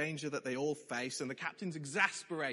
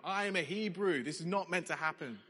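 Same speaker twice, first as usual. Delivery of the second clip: "I am a Hebrew" said with a high, proud, resentful lift on "Hebrew"; arrogant entitlement; 3 semitones higher than usual. Shown as a demonstration. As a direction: sound superior and put out. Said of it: "a statement of entitlement, of arrogance".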